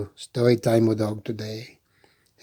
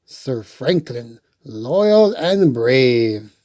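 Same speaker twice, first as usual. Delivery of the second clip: proclaiming; much slower than usual. A narrator's reading. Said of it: "It said".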